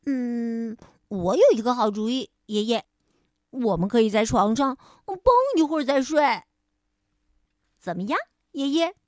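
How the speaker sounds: put-on fast, eager little boy; happy child voice. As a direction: rattle it off like a thrilled kid. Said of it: "巴尼高兴地说".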